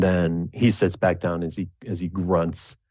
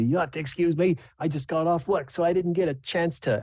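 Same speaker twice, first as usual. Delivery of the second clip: higher, chatty little showman; gnome jester voice; 10 semitones higher than usual. Acted. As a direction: apologize breezily to the crowd.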